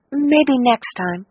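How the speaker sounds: slow, dull and lifeless. A narrator's reading. Cecilia declines Kathy's invite, dull and slow. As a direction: drag the words out, deflated. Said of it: "she said in a dull voice".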